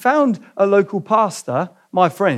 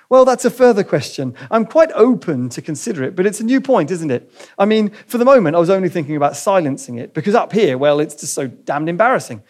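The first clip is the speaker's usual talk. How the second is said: flustered ghost wriggling out of it; flustered excuse. Acted. Ghost dodging the angel's offer, flustered.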